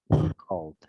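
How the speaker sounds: Called with a clear final D, spoken slowly; teacher modelling the past tense ending; final D sounded. Shown as a demonstration. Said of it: "esta sería con una D".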